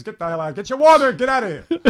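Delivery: high-pitched mock firing rant; annoyed owner impression. Boss fires the kid mimicking him, high ranting voice. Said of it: "And I would imitate him".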